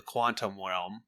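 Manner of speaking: "realm" said as "welm"; mispronounced realm. Real, not acted. Co-host slips up telling the Ant-Man story, "realm" as "welm". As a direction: slip a W onto the start of "realm". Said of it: "quantum realm?".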